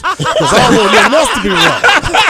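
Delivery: high, loud comic pleading through laughter; worked-up mock refusal to budge; comic insistence. Comic refusal to leave before police.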